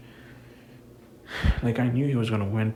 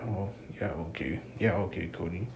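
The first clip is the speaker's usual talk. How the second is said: sarcastic; 3 semitones lower, 5 dB quieter than usual. Real, not acted. Sarcastic dismissal of Cody.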